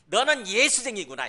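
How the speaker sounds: name-calling, acted out for the congregation; brand them with the nickname; mock insult. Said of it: "사람들이 욕하거든요".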